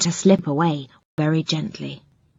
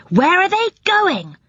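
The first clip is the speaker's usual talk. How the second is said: curious; 11 semitones higher than usual. Acted. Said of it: "asked Rick curiously".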